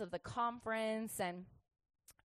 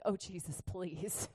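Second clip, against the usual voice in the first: pleading prayer; 5 semitones lower, 9 dB quieter, slower than usual. Retold or imitated. Mom's prayer acted out.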